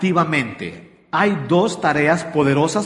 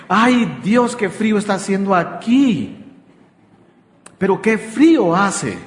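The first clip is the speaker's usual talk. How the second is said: hinting wife; 2 semitones higher than usual. Retold or imitated. Wife hinting to her husband at a cold wedding, mock complaint. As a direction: sigh it out as if just chatting, hoping he gets it. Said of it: "la esposa empieza a hablar en claves y dice".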